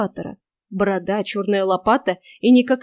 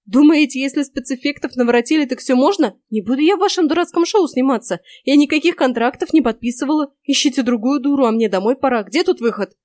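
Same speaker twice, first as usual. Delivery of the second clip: higher, louder, indignant outburst; indignant protest; 4 semitones higher, 5 dB louder than usual. Acted. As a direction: refuse it all in rising outrage. Girl protests angrily to witch. (возмущённая девушка протестует против ведьмы)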